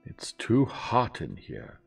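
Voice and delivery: high, loud, drawn-out complaint; snappish old lady. A narrator's reading. Old lady complaining of the heat, snappish. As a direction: complain imperiously about the discomfort. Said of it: "snapped Miss Van Schuyler".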